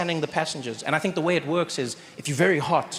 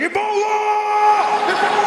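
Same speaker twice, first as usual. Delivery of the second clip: higher, louder alarmed yell; panicked shout; 6 dB louder, much faster than usual. Retold or imitated. Passenger yelling at the coughing comedian, panicked shout. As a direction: blurt it out in a panic. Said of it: "he was like".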